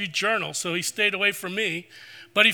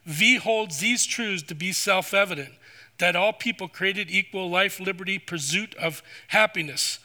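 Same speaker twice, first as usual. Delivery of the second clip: put-on Russian accent. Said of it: "through his strong Russian accent".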